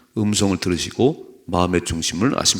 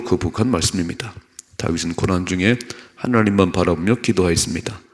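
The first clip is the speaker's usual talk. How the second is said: formal reading aloud; 2 semitones lower, 4 dB louder than usual. Acted. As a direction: read the written passage out firmly for the congregation. Reads out a prepared passage after "읽어봐요.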